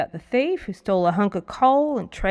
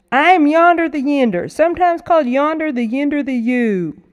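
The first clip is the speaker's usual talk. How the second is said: loud, grand self-announcement; boastful introduction; 6 semitones higher, 7 dB louder than usual. Acted. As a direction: proclaim your name like a showman. Boastful boy introduces himself.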